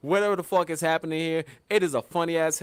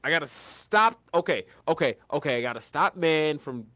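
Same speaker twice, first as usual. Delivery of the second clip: a touch lower, musing to itself; voice of nature; 3 semitones lower than usual. Retold or imitated. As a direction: talk like nature deciding, lightly voiced. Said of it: "nature went like".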